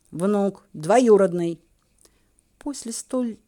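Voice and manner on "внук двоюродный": louder, spelling it out for the deaf; raised voice. Acted. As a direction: raise your voice as if she's hard of hearing. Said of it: "значительно повысив голос".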